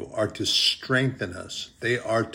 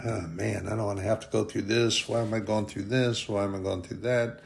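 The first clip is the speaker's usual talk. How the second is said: softer, grumbling complaint, mildly whiny; mock griping; 5 dB quieter than usual. Pastor imitating his younger self complaining, soft mock griping. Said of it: "be kind of griping and moaning".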